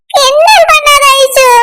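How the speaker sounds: slow, whining complaint; tearful protest. Acted. Crying girl begs friend not to tease, whiny. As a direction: drag it out, wounded and weepy.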